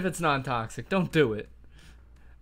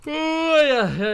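excited; 14 semitones higher, 9 dB louder, slower than usual. Real, not acted. Excited game reaction.

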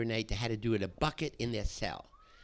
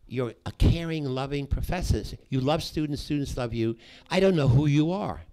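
retold upset plea; 3 semitones higher, 5 dB louder than usual.

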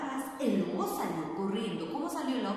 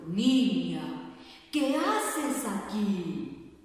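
big bad wolf; 5 dB louder, much slower than usual. Wolf speaks to Little Red Riding Hood.

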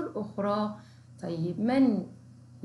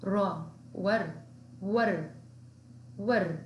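syllable drill; much slower than usual. Shown as a demonstration. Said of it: "لديها حركة الفتح".

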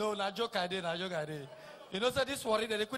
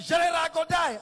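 mock plea; 5 semitones higher, 8 dB louder than usual. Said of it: "He won't come to implicate me".

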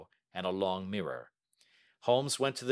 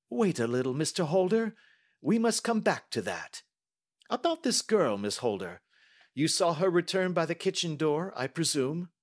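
firm, raised detective's voice; Holmes; 9 semitones higher, 4 dB louder than usual. Acted. Detective checking the banker and questioning the niece, firm. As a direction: take charge, then question politely.

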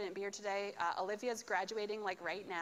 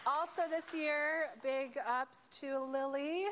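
hype announcement; 3 semitones higher, 3 dB louder, slower than usual. Real, not acted. Hyping up a student.

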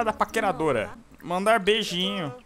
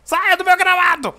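put-on grumpy old man; 9 semitones higher, 6 dB louder than usual. Yelling at kids off the lawn.

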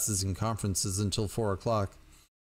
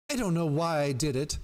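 put-on higher, pleading girl's voice; pitiful bleat; 5 semitones higher than usual. A narrator's reading. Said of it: "the girl bleated pit-, pitifully".

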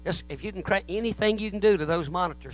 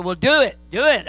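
retold eager plea, higher; eager urging; 4 semitones higher, 5 dB louder than usual. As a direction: urge him on, mildly insistent.

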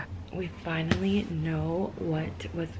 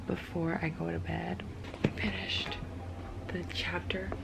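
whispering; 6 dB quieter than usual. Real, not acted. Bedtime hushed talk.

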